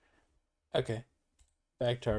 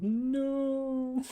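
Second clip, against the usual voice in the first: curt dismissive no; 12 semitones higher than usual. Retold or imitated. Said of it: "I would've just said".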